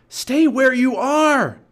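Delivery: high, loud, drawn-out warning yell; shouted. A narrator's reading. Jack warning Annie on the ladder, shout. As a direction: yell to keep her away. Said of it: "Jack shouted".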